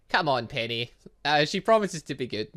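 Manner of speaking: normal talking voice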